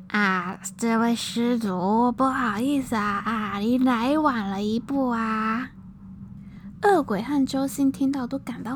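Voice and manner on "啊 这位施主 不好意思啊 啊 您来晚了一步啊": amused. Acted. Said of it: "老和尚闻言笑了笑说".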